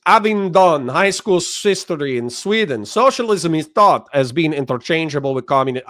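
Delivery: put-on half-hearted Hispanic then Russian accent reading a chat message; mock Hispanic-Russian accent. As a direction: read the comment in a hammy Hispanic turning Russian accent. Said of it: "I don't know why I went Hispanic and then Russian".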